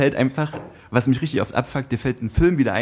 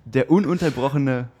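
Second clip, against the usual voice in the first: slow, drawn-out fight night announcer; boxing ring announcer. Acted. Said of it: "Paul sein Intro machen".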